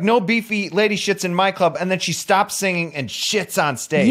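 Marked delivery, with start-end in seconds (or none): 0.0-1.8 high, loud outraged yell; loud indignant club owner. Retold or imitated. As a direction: bellow it like an offended bouncer. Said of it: "and she's like".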